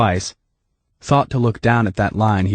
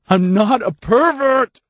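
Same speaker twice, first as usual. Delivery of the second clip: higher, slow, rising insistence; growing stronger, louder; 3 dB louder, slower than usual. A narrator's reading. Dave denying again, growing stronger and louder. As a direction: push it harder and louder. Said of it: "Dave's voice was growing stronger, louder".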